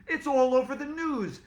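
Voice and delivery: high, loud panicked cry; alarmed shout. Acted. Teacher bursting in with bad news, loud alarmed shout. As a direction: blurt it out in alarm. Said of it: "shouted Mister Klutz".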